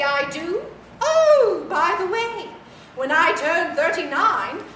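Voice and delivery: lightly voiced grand old lady; a hint of a teasing dowager; frail withering duchess. Toy questions, calls her dear.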